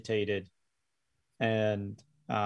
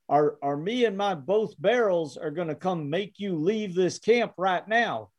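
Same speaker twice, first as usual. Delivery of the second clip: put-on higher, agitated old prospector; 5 semitones higher than usual. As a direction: warn him off like a cranky miner. GM voices threatening old miner.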